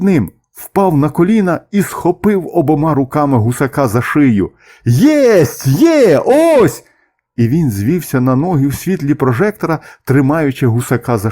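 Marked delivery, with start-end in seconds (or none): 4.8-6.8 high, excited whoops of discovery; exultant yells, pitch leaping up; triumphant shouting. A narrator's reading. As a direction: cry out that you've caught it. Man triumphantly seizes the gander.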